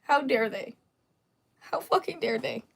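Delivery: mock crybaby. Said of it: "walking around crying like".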